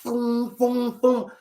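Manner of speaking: high-pitched mimicked booms of a swing; imitated whooshing boom. Storyteller replaying the burning-mop fight, high imitated booms. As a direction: make the flung mop's sound effect.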